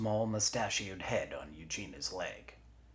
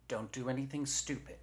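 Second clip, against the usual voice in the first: firm warning, pitch raised; 8 semitones higher than usual. A narrator's reading. Eugenia hands her arm the phone, warning. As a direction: warn them off sharply. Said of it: "Eugenia warned".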